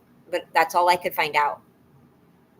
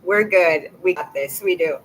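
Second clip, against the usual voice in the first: self-encouraging; 4 dB louder than usual. Real, not acted. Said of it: "I'm gonna get it together".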